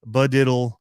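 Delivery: "Budiddle" starting with a b; "Budiddle" as buh-DID-dle; variant pronunciation. Shown as a demonstration. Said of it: "some people apparently call it".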